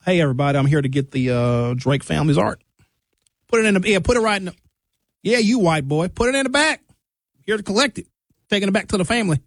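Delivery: a mock Southern accent for dramatic effect. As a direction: play a cowboy in overalls with a Southern accent. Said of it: "I don't know why I'd have to have a Southern accent".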